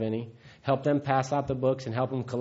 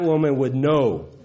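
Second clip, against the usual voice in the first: laughing; 5 semitones higher, slower than usual. Real, not acted. Telling the room his mother would hear booze in his voice, laughing slowly. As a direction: laugh at how well she knows you.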